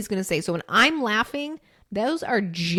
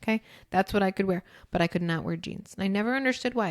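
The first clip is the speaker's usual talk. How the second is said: ordinary talk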